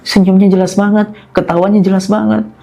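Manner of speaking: rising, insistent mock panic; retold fearful account. Husband telling wife what he saw, acted fear. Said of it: "kok kayak ketakutan gitu".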